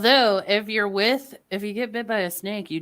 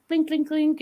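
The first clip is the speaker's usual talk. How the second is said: imitated pinching; 9 semitones higher than usual.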